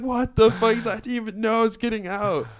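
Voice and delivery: high-pitched, excited disbelief; imitating an astonished, elated reaction; retold amazement. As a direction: act out someone floored by surprise news. Jim amazed at release, retold.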